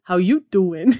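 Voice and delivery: imitating a New York cop's accent, playfully; mock Brooklyn-style catchphrase; imitated New York accent. Daughter shows police officer she talks like him, mock New York accent. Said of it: "I can talk like you".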